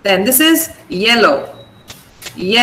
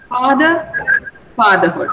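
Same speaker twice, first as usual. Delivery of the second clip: "Father, fatherhood" with the stress on FA in both; stress on first syllable. Shown as a demonstration. Teacher models where the stress falls, first-syllable stress on "Father, fatherhood". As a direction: lean on FA at the start of "Father, fatherhood". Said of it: "mark the stress before fa".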